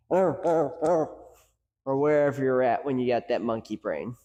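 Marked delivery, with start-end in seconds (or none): 0.1-1.2 hammed-up angry growling; a mock frustrated arr arr. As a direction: growl like an annoyed coach. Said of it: "that anger".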